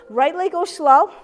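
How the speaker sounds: slow, stretched instruction; drawn-out demonstration. Shown as a demonstration. Instructor showing a slow leg lift, drawn-out demonstration. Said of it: "So this is how it works".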